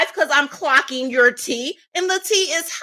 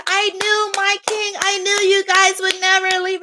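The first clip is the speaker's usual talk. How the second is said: mock adoring fans, higher; fawning cheer; 5 semitones higher than usual. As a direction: gush like a devoted subject. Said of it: "wait for y'all to cheer and say".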